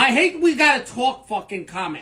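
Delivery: brash Italian-American guy bickering in a sketch; hammed-up Italian-American accent, swearing and mocking. Acted sketch with Italian voices.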